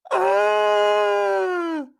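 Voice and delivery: high shrieking cry of fright; a startled animal yelp; donkey's shocked cry. Acted. Donkey hears he'll become glue, shrieks in fright.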